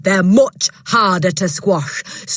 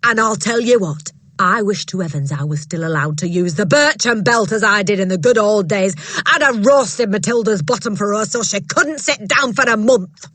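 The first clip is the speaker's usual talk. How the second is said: loud, bullying headmistress voice, higher; booming headmistress; 4 semitones higher, 5 dB louder than usual. Acted. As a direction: bark it down at a timid teacher. Trunchbull voiced in story.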